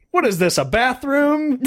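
slow, high, laughing mock outrage; high laughing mock complaint; mock upset catchphrase. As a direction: toss it off like you're fed up, laughing. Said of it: "the English version of that whenever I'm upset".

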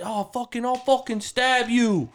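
high, slow mock threat; drawn-out slurred threat; imitating drunk threat. Retelling Eric's drunk threat outside the bar, imitated. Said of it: "Eric's like".

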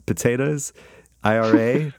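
mock Irish accent. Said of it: "whenever Irish guys say anything".

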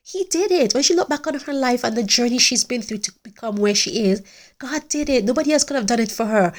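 fervent. Real, not acted. Preaching the point with fervour.

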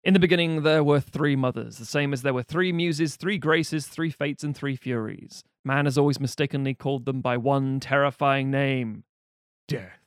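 slow portentous title card read; dramatic reading. Acted. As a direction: read it like an ominous prologue. Reads film title card.

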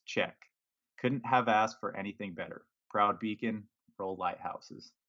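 deadpan sarcastic checklist read-out. Retold or imitated. Reading own sarcastic tweet about the new mascot, deadpan. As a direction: tick off the fake virtues drily. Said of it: "with a dose of sarcasm here".

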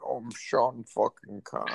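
a quick mock Scottish Bond voice with a laugh; Sean Connery. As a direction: toss off a playful Bond impression. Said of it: "bring back Sean Connery".

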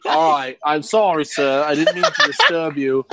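playful put-on British accent; half-hearted British voice; fake British accent. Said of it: "Why are you using a fake British accent?".

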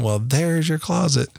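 put-on slow, sassy little kid; dad imitating his son's sassy reply. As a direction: drawl it out with toddler sass. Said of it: "So he just was like sassy".

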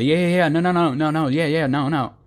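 high, rushed yeah-no babble; hammed-up nervous waffling. Mocking a nervous person answering a lunch question, flustered. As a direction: spit out the yeahs and nos in a flustered jumble. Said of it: "they say".

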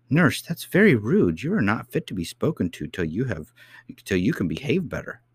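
a small princess sternly correcting her nurse; reproving. Acted. Princess scolds rude nurse.

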